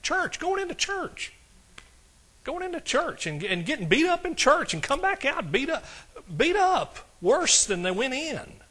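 high-pitched, drawn-out disbelief; incredulous. Retold or imitated. Preacher reliving his baffling vision for the congregation, incredulous.

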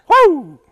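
high, very loud revival whoop. Acted. Preacher acting out the shouting ladies, high whoop. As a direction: let out a big gleeful whoop.

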